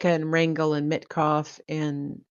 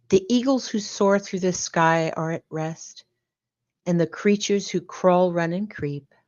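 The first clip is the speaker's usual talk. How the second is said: bedtime story reading. Acted. Host reading a bedtime story to the room, lulling. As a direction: read it like a gentle lullaby to a child.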